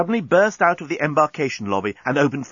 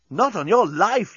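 defiant yell; 9 semitones higher, slower than usual. Acted. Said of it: "yelled Nettie".

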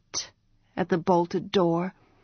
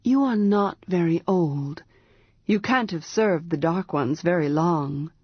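gently. Acted. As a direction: ease it to her like an older brother. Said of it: "he said gently".

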